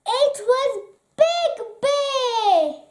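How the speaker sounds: high, bright relieved exclaim; relieved reveal. A narrator's reading. Narrator revealing Big Bear at the door, relieved. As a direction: burst out with joy and relief.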